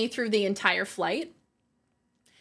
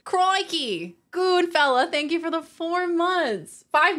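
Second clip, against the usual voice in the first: higher, slower hammed-up Australian accent; mock Australian accent; 7 semitones higher, slower than usual. Streamer thanking a subscriber, mock Australian accent. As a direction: thank him in a put-on Aussie accent.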